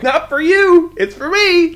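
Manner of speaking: high, loud indignant retort. Retold or imitated. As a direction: snap back, loud and high. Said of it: "I'm like".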